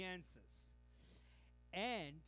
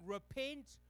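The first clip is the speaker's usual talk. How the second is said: wild prophet's cry; 5 semitones higher, slower than usual. Retold or imitated. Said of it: "like a wild, crazy man saying".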